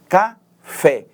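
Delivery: Café split in two, loud, with force on FÉ; stress on last syllable. Shown as a demonstration. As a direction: separate Ca and fé, hitting FÉ. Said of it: "ela é pronunciada mais fortemente". (Café silabado, com força no FÉ)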